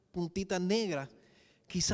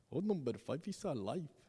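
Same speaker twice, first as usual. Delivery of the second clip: put-on Indian accent, low and soft; 5 semitones lower, 6 dB quieter than usual. Quoting a man's line about the robot, in a put-on Indian accent. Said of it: "Hablo con ese acento porque el tipo tiene un acento hindú".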